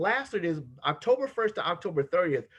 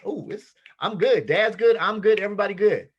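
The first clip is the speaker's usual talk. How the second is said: put-on excited kids; 3 semitones higher, 6 dB louder than usual.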